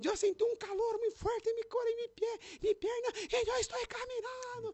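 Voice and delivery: very high-pitched voice.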